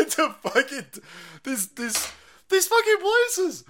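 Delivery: high, loud, drawn-out ranting; angry rant. Real, not acted. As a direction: spit it out at those places. Ranting about medical places.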